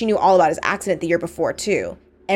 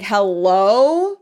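mock-incredulous, louder hello; incredulous retort; 5 dB louder than usual. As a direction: call it out as if they missed the obvious. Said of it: "And I was like".

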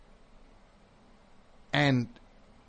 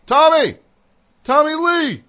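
much higher, louder fan scream; 14 semitones higher, 10 dB louder than usual. Retold or imitated. Fans screaming at a guitarist thinking he is another musician, loud shriek. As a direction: shriek the name like a frantic fan. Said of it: "they're just screaming".

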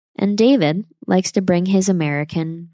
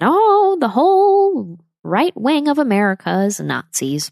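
shrill, much higher and louder sarcastic mimicry, slowing down; mocking the left; 8 semitones higher, 5 dB louder, slower than usual. Vlogger mocking what the political left says, in a high, loud sarcastic voice. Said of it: "they say that".

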